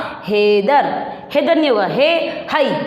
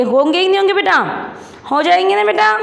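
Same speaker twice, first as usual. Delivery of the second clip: coaxing question; 7 semitones higher, much faster than usual. Acted. Coaxing children to agree.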